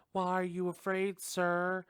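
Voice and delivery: high-pitched, baffled challenge; mock incredulity. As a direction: question him in exaggerated disbelief. Mock-challenging a screaming film character.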